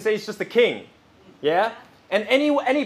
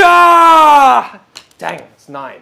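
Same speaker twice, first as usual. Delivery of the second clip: deflated letdown; 4 semitones higher, 11 dB louder, much slower than usual. Acted. Gambler's letdown after failed yell.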